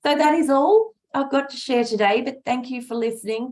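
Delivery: hoarse, raspy speaking voice. Real, not acted. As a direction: talk through a raspy throat. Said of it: "my raspy voice".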